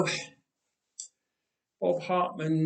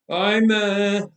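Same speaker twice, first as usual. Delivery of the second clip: stammering; 4 semitones higher, 5 dB louder than usual. A narrator's reading. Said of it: "Ehud stammered".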